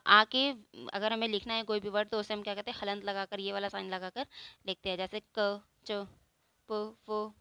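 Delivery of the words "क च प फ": क, च, प, फ each said alone with only a short "uh"; bare consonant sounds. Shown as a demonstration. Teacher showing consonants without the आ, bare consonant sounds. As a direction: separate each consonant, no long "aa" after it. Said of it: "इसमें हमारा आ नहीं निकल रहा".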